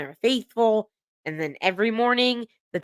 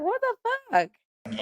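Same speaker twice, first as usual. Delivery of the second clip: high, slow, shocked what the fuck; stunned disbelief; 4 dB quieter, slower than usual. Retold or imitated. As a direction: stretch it out in disbelief as if the insult just landed. Reacting to the on-screen insult.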